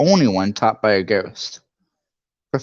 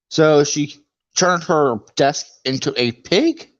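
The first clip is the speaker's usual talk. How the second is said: incredulous; 2 semitones higher, slower than usual. Real, not acted. Incredulous aside about the book.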